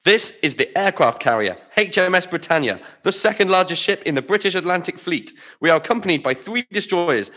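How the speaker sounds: pompous threat. Acted. Captain threatens with his fleet.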